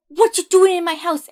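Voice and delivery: mock troll roar. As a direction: bellow it like an angry troll. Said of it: "The troll's like".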